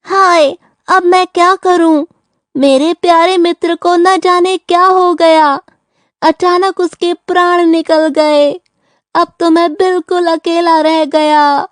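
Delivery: feigned weeping. Pretend. Turtle to approaching jackal about his dead friend, feigned weeping. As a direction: pretend to mourn your dear friend. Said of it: "क्यों रो रहे हो".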